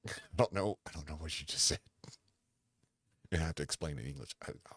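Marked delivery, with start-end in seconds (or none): 0.1-1.8 laughing confusion. Retold or imitated. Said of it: "I'm like".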